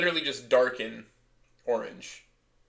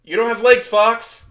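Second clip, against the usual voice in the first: Star Fox pilot voice; 9 semitones higher, 6 dB louder, slower than usual. Retold or imitated. Star Fox quotes, hammed up.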